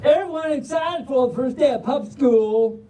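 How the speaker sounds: folksy Southern storybook reading; Southern drawl. Acted. Reader opening the puppy book for the crowd, Southern drawl. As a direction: launch the title in a Southern drawl. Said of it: "but in a Southern drawl".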